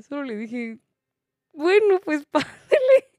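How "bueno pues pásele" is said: high, slow, loud with a laugh; slow sarcastic pásele with a laugh; sarcastic giving way. Retold or imitated. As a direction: let her pass with mocking politeness. Sarcastically letting lady pass.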